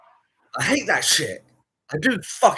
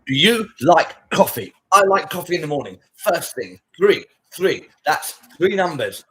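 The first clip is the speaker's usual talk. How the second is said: loud, slow, punchy mock intro; mock loud hook; 8 dB louder than usual. Mocking attention-grabbing creators, loud punchy hook. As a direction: hammer each word like a clickbait intro.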